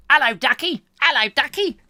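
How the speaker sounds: high, loud mock Queen voice; Queen greeting. Imagining the Queen greeting Harry, high mock Queen voice. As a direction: chirp it like a jolly old Queen. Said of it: "I wonder if the Queen says that to Harry".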